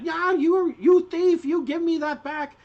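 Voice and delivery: shrieky gnome accusation; angry gnome woman. Acted. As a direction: scold the thief at a high pitch. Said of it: "this gnome woman's like".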